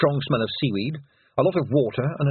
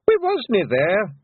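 slow, high, loud plea; desperate yell; 10 semitones higher, 4 dB louder, much slower than usual. A narrator's reading. Rob Anybody denying the charges, desperate loud yell. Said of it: "yelled Rob Anybody desperately".

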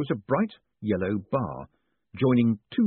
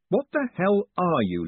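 startled gasp; 9 semitones higher than usual. Acted. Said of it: "Lipwig managed".

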